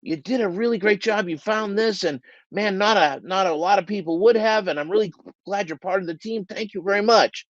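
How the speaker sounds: hammed-up compliment from a self-serving manager; mock gushing praise. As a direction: pile on the praise a bit too sweetly. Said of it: "don't make this mistake where you're going".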